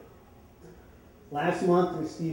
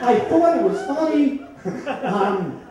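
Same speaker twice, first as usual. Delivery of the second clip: higher, louder, laughing through the confession; 8 semitones higher, 7 dB louder than usual. Real, not acted. The speaker confesses the fake birthday card to the audience, laughing. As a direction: giggle while owning up.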